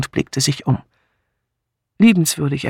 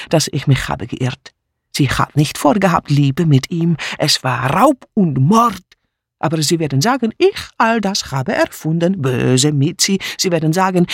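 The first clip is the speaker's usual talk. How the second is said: higher, jumpy, insistent broken German; agitated refugee maid; 5 semitones higher than usual. Acted. Mitzi insisting to the inspector, agitated and defiant. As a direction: pour out the accusation, wounded. Mitzi tells what she heard.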